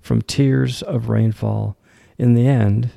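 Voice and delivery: deliberate poetry reading, firm line openings; poem recitation. Acted. Host reads the poem Greener Sides to listeners, poem recitation. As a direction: recite it in phrases, pausing after each line.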